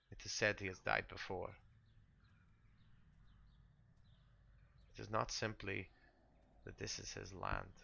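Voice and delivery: lightly voiced, formal and deliberate sister; resigned game character. Sister warns newcomers about the undying lord, lightly voiced resignation. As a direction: patiently explain a hopeless cause, with pauses.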